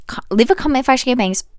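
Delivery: fast whispered aside. Real, not acted.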